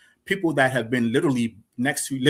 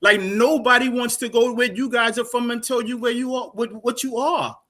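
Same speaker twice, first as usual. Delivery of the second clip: heated, higher-pitched scolding; raised pitch, real indignation; indignant; 6 semitones higher than usual. Real, not acted. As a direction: lecture them in rising exasperation. Heated argument over identity.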